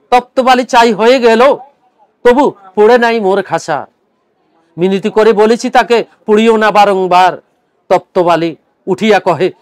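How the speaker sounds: আবৃত্তি; poem recitation. Acted. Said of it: "আমি আপনাদেরকে পড়ে শোনাচ্ছি".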